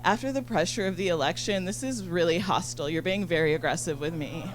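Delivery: soft, prim, hurt tone; lightly voiced calm condescension; girlfriend offended. Girlfriend calmly accusing Ashley of hostility, soft and prim. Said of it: "she's like".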